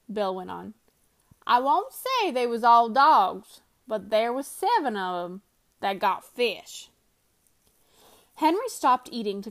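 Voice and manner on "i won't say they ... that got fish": Bill's voice. Acted. Bill hints at a seventh dog.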